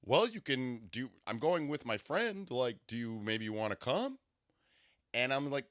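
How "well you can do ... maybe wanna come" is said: lightly put-on slow, careful voice; a touch of his measured cadence, halting; imitating his date. Her date tentatively inviting her along, light formal impression. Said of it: "I'm gonna imitate his voice".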